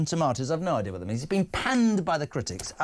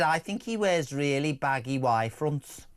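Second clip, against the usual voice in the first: slow, lightly put-on Liverpool accent; slower than usual. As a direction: imitate a Liverpool woman, drawn out. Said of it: "In that accent".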